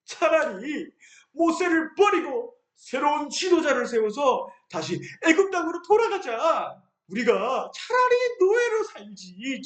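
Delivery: high, whiny rebellion against Moses; defeated grumbling. Acted. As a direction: sulk and give up. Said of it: "이렇게까지 말했어요".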